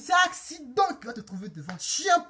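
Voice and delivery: African-accented mock threat. Storyteller replaying her threat to the driver, African accent. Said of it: "Avec mon accent africain".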